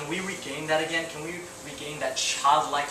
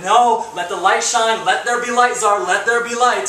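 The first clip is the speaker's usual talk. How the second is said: God's commanding voice; 6 semitones higher, 8 dB louder than usual. Retold or imitated. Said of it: "And God's like".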